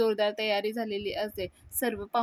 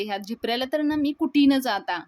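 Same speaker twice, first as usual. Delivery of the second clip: raised, louder angry threat; teasing threat at the cheeky brother-in-law, angry and louder; 3 semitones higher, 6 dB louder than usual. Acted. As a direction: snap it at him, irritated. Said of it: "मी रागानं धन्याला म्हणते".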